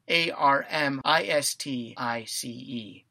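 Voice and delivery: dictating letters one by one; spelling out. Shown as a demonstration. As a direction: spell it for the class. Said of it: "Armistice spelled".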